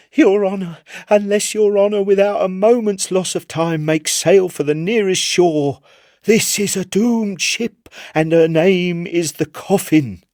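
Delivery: pleading sailor. Acted. Chips on his knees begging the Admiral, high and urgent. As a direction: beg for everyone's lives in a high strained voice.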